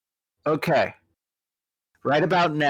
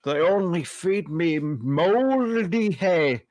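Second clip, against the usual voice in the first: higher, slow plaintive creature voice; a lightly voiced captive triceratops; lightly voiced beast; 4 semitones higher than usual.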